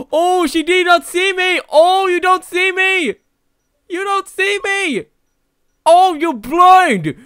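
high, loud gloating; gleeful taunt. Real, not acted. Gamer taunting the blind owner, high and gloating. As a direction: crow at her for not seeing you.

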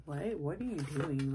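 incredulous, swooping questioning tone; mock disapproval. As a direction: act taken aback, as if scolding someone. Acts out judging others who curse.

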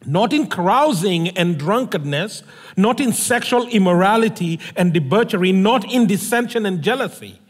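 measured, solemn reading of a Bible passage; scripture reading. Acted. Scripture reading opening the sermon.

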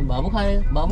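playful sing-song pleading; baby-talk coaxing. Pretend. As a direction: coax like feeding a toddler.

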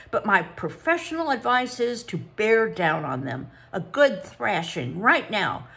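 a touch of venom in the verdict; spiteful psychologist. Acted. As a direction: deliver the verdict with malice. Psychologist delivers her verdict.

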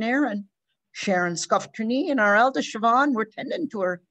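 lightly voiced Irish storyteller; relieved father telling the tale; old Irish farmer. Mr O'Brien tells the story.

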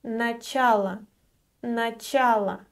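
начало with the unstressed о reduced; teacher pronunciation demo; careful Russian word. Shown as a demonstration. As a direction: say начало clearly, stress on ча. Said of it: "it is pronounced as э".

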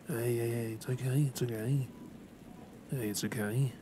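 soft, reassuring murmur; calm them as they wake; gentle bedside reassurance; comforting. Acted. Comforting a patient waking up.

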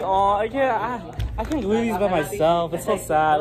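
mock sad. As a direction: play up a pitiful little complaint. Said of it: "You can't make it sound that sad".

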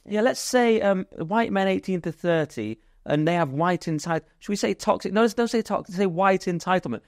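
mock ad exec brainstorming. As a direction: play a marketing team member workshopping buzzwords. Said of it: "imagine the hate monster meeting".

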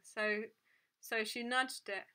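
plain reading voice

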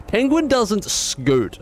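slow, high, drawn-out protest; indignant insistence. Real, not acted. Correcting the author, slow high insistence. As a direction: spell it out for the listener.

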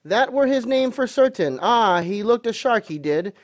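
high, loud, eager voice; quite excited. A narrator's reading. Landlord hopes Ben catches Black Dog, excited and loud. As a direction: rattle on with rising excitement. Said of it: "now quite excited".

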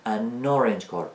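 slow "an orange car" as "a nnorange car"; linked n-sound. Shown as a demonstration. Teacher summing up the rule, n glued onto orange. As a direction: hold the n of "an" so it starts "orange".

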